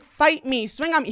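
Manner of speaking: high-pitched, mock-combative goading; egging on an opponent as retold; retold dare. Daring the guy to start it, mock-combative.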